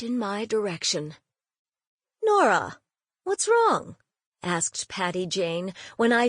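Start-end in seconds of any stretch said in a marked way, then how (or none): 2.2-4.0 worried question. Acted. Aunt worried at Nora's silence.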